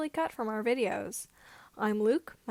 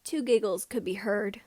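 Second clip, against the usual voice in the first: ordinary delivery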